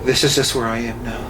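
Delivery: mock-dramatic kid digging in; dramatic little boy. Retelling a boy's stand to a friend, mock-dramatic. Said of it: "So dramatic".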